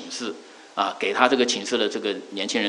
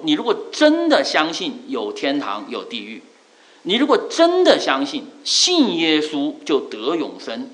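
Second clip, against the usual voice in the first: slow, emphatic rebuke that trails off at each clause; a mild retelling of a furious friend; angry barber; 2 semitones higher than usual. Retold or imitated. Barber rebuking his Christian customer, slow and mildly angry. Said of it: "变得非常生气的样子".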